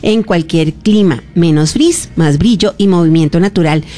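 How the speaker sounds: upbeat sponsor read, lightly sold. Acted. Host reading a curl product ad to the audience, upbeat sponsor read. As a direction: pitch the hair product to viewers.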